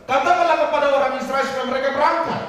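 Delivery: high, loud commanding voice of God. Acted. God orders Musa, high and loud. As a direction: order them to march out. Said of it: "Tuhan bilang gini kepada Musa".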